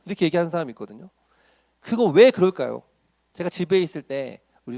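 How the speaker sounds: normal talking voice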